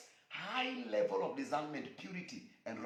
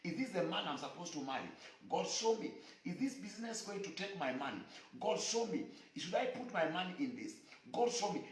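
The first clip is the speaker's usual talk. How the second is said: higher-pitched imitated prayer; urgent, repeated appeals in a raised pitch; praying believer; 4 semitones higher than usual. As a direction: plead with God as a busy petitioner. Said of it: "you are busy praying".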